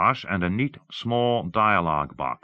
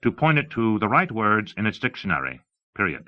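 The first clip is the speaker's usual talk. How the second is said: higher-pitched, emphatic presenter; lightly voiced demonstrator; 4 semitones higher, 3 dB louder than usual. Demonstrating dictation software to an audience, lightly voiced presenter.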